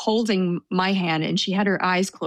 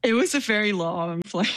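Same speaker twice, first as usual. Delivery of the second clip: laughing; 2 semitones higher than usual. Real, not acted. Rueful laugh about long flight.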